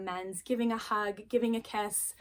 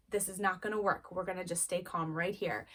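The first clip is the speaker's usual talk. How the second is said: lower, softer steadying voice; calm, constant; 3 semitones lower, 4 dB quieter than usual. Acted. Parent steadying an upset child, calm. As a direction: hold steady, low and unhurried. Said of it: "Stay calm. Be the calm. Be this constant".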